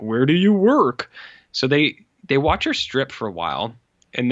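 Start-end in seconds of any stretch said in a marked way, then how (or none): 0.0-1.1 higher, louder eager question. Retold or imitated. The artist keenly asks the girl where she works. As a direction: ask it with puppy-like interest. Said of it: "And he's like".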